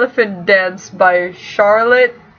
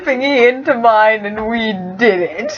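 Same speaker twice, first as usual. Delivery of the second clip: mock fanfic voice; 3 semitones higher than usual. Mock reading silly fanfic line.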